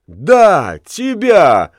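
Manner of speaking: rising, eager cry; gleeful exclaim. Acted. Girls shout back at Lamme together, gleeful. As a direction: toss it back at him with teasing glee. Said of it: "хором воскликнули они".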